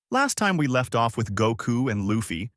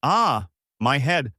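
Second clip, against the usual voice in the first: mild groan of pain; 4 semitones higher, 3 dB louder, slower than usual. A narrator's reading. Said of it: "holds his head before saying".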